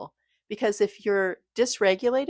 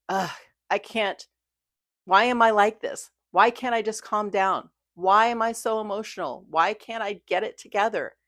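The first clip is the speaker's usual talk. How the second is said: mock frustrated self-scolding, a bit louder; harsh self-criticism; 3 semitones higher, 4 dB louder than usual. Talking to herself about her own feelings, harsh and exasperated. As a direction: scold yourself like you're fed up. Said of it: "but in a way that's harsh".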